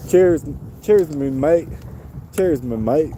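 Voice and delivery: playful Aussie "cheers, me mate"; Australian accent. Pretend. To the bird, a light mock Australian greeting. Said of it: "That's Australian, huh?".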